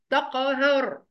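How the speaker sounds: "تقهر" with a bouncing release on q; qalqala on qaf. Shown as a demonstration. Teacher pointing out the rule, "تقهر" with bounced qaf. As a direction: echo the ق in "تقهر". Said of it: "عندي القاف هنا فيها قلقلة".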